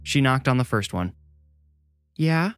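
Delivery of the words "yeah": put-on a higher young girl's voice; small, bored "Yeah?" from a girl; childlike voice. A narrator's reading. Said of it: "a smaller version of Francis's voice asked".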